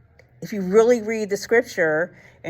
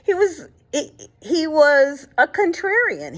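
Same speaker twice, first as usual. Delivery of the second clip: laughing; 9 semitones higher than usual. Real, not acted.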